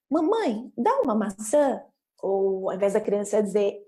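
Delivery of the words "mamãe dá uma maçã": put-on child's request.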